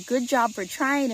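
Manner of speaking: upbeat, encouraging praise; super encouraging. Shown as a demonstration. Parent praising child for trying, encouraging. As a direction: cheer them on for trying. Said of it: "Just being super encouraging".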